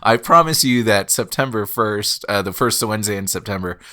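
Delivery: congested sick voice. Real, not acted. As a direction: talk through a cold. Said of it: "how sick our voices sound".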